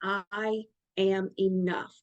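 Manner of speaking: slow mantra. Shown as a demonstration. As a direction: say it as your daily mantra. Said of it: "your mantra".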